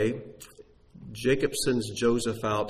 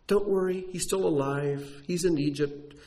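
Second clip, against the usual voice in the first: reassuring God; 4 semitones higher than usual. Pretend. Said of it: "God could have just said".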